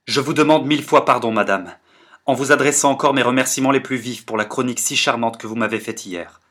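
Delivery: plus fort et rapide, assuré; voix claire et brusque. Acted. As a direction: se reprend d'un coup, net et poli. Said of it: "brusquement d'une voix claire". (une voix soudain claire et décidée)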